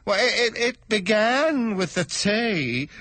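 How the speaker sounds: high, slow stammering hatter; timid stuttering hatter; nervous hatter. Acted. Hatter voiced.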